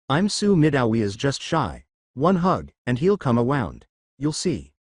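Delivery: lisping reassurance to Ochako; hunter's lisp. Acted. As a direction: lisp through it, confident. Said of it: "talking like this".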